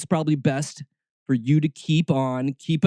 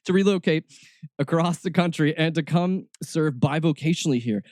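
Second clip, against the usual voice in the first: usual speaking voice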